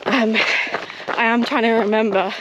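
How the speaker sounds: talking mid-run, a bit breathless; while running. Real, not acted. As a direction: speak while jogging downhill. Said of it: "it's quite fast running".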